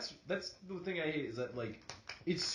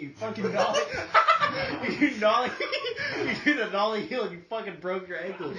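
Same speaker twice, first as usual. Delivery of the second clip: loud, higher, cracking up; laughing while teasing; 9 semitones higher, 11 dB louder than usual. Real, not acted. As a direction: tease him through laughter. Mocking friend's injury.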